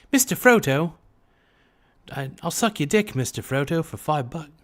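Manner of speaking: high-pitched put-on hobbit voice; Samwise Gamgee. Streamer jokingly propositioning Frodo as his sidekick, Samwise Gamgee impression. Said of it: "my impression of Samwise Gamgee".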